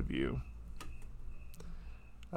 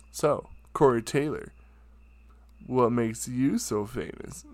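showboaty attitude. Retold or imitated. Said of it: "most ignorant, so showboaty, douchey attitude".

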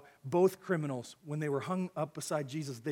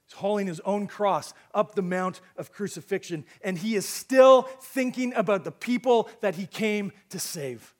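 impassioned preaching; 4 semitones higher, 9 dB louder than usual. Acted. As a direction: press it on the congregation with rising force. Preaches with mounting force.

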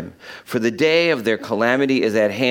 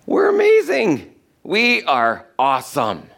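mock boast; 3 semitones higher, slower than usual. Mocking the proud boasting people.

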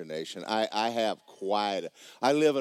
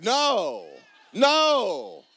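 much higher and louder cry of no; mock audience protest; 9 dB louder than usual. Preacher voicing the congregation's reaction, mock high protest. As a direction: ham up the crowd's disbelief. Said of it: "Y'all like".

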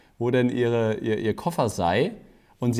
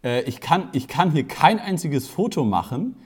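raised, higher voice re-enacting an exasperated call; retold loud appeal; 4 semitones higher, 3 dB louder than usual. Photographer calls to the half-dressed women, retold loud appeal. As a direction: call out to the room, a mock telling-off. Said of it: "so einmal so ganz laut so".

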